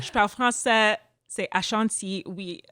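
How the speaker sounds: put-on lightly playful French-accented reply. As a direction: answer proudly in French. Switches to French, retelling Quebec.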